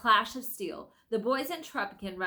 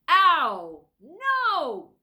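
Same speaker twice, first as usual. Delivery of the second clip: loud, pained yell; bellowing; 8 semitones higher, 11 dB louder than usual. Acted. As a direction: roar it out in pain. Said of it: "bellowed Trumpkin".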